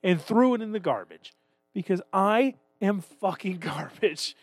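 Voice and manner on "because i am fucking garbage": laughing. Real, not acted. Mocking himself, laughing.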